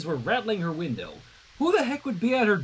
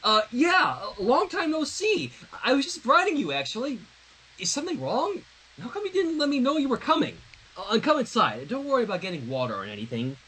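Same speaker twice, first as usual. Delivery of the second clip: higher, quick, nervous chatter; flustered rambling; 5 semitones higher than usual. Acted. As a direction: babble nervously to cover the shock. Sunset flustered at surprise visit.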